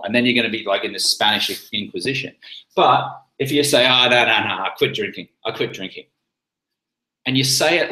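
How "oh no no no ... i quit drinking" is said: playful, self-assured refusal with a joke; confident and teasing. Shown as a demonstration. Declining a drink, teasing and confident. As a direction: make a little joke of it. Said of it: "with confidence".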